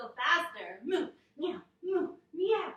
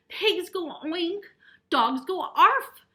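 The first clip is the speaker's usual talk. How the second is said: slow, louder, higher patient mother voice; a touch of teaching mother; 6 semitones higher, 12 dB louder than usual. A narrator's reading. Mother teaching George his animal sounds, slow and loud. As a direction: spell it out slowly for the child.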